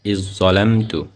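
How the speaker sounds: slow ইজ্জলামতু with the doubled জ; correct recitation. Shown as a demonstration. Teacher gives the correct reading after the wrong one. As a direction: say it slowly, the correct way. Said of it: "হবে হচ্ছে এটা".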